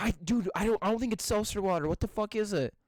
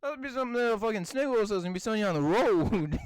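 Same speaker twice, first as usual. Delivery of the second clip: put-on southern accent; faster than usual. Riffing on the snake oil salesman, southern accent. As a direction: run it together like a mock southerner. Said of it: "went southern".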